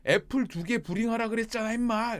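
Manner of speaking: loud, high mock telling-off; hammed-up angry boss, pitched high; imitated angry scolding. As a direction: play the boss losing patience with a worker. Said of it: "화내면서 하면".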